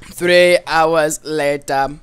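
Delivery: documentary narrator. Pretend. Mock narrator caption.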